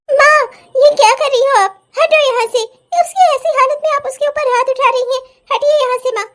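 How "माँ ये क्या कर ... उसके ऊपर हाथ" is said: alarmed shout. Acted. Stopping mother from hitting sister.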